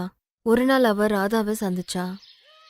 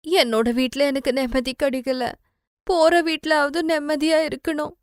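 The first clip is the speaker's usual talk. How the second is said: put-on higher, hopeful girl's inner voice; wistful inner thought; 5 semitones higher than usual. Sudha thinks to herself. (உயர்ந்த குரலில் ஏக்கத்துடன் மனதுக்குள் பேசும் பெண்)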